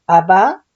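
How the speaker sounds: "abá" con acento en la segunda A, abá. Shown as a demonstration. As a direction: marca la última A de "abá", con la V de vaca. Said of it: "acento en la segunda A". ("abá" con acento agudo en la segunda A)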